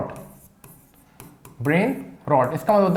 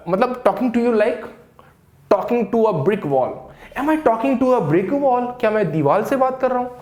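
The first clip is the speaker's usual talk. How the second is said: exasperated complaint; 4 semitones higher, much slower than usual. Acted. Teacher acts out an exasperated speaker.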